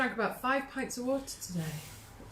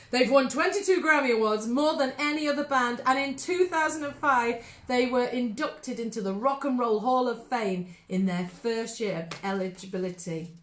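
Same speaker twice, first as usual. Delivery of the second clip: awards host voice; 2 semitones higher than usual. Acted. To the listeners, presenting the band like at the Oscars, grand announcer voice. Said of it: "I feel like I'm giving an Oscar".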